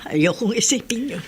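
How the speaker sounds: hushed, unvoiced dread; whisper. Mother whispering to her friend, fearing for her son. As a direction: whisper it, not wanting to think it.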